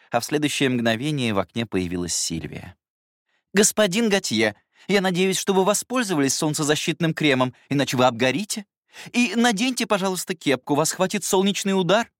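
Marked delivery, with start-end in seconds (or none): 3.5-12.1 high, caring but firm nanny voice; fussing governess. Acted. Governess fussing over the young master's sun cream, high voice. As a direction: fuss over him like a strict nanny.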